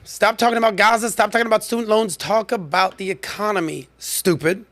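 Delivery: mock fed-up rant, easing at the end; exasperated strategist. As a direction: scold your own side, imitating the strategist. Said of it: "He said".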